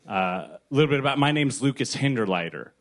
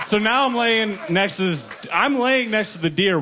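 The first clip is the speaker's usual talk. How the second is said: laughing through it; 9 semitones higher, 4 dB louder than usual. Real, not acted. Laughing while telling the crash.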